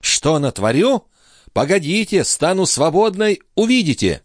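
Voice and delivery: put-on high, threatening young woman; veiled threat. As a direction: tease him with a promise of revenge. Lorenza threatens.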